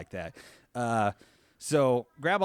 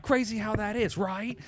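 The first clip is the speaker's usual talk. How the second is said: sarcastic high quip; 10 semitones higher, 4 dB louder than usual. Retold or imitated.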